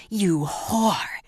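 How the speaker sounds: furious father hissing at his daughter; hissed insult. Acted. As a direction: spit the word out breathily. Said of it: "he screamed".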